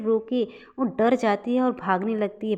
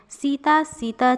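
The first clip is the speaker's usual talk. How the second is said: raised, high call of the name; calling out loudly; 5 semitones higher, 5 dB louder, slower than usual. A narrator's reading. Husband comes in with the jug calling his wife, shouting. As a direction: call out to someone inside the house. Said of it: "चिल्लाते हुए अंदर आने लगता है".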